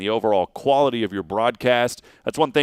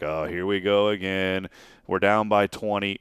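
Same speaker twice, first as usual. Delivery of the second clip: deflated broadcaster; 3 semitones lower than usual. Retold or imitated. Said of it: "it's almost like".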